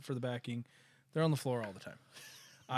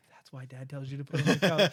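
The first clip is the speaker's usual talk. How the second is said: laughing; 7 dB louder than usual. Real, not acted. Dad gently scolding, amused.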